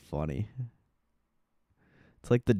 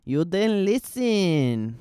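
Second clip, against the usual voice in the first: mock scolding; 9 semitones higher, 5 dB louder, much slower than usual. Streamer mocks a stubborn trader.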